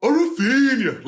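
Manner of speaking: high, loud put-on Brazilian accent; hammed-up Brazilian pronunciation. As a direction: call out the name in a mock Brazilian accent. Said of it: "say names in sort of their accent".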